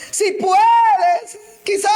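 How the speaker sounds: high, loud, cracking cry of doubt; doubtful mock plea. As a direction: throw out the doubting words with a cry. Mocking the doubting father.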